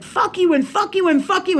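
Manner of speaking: heated retelling, pitch jumped up; retold pissed-off. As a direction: re-enact a rapid string of insults. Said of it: "'Cause I was pissed".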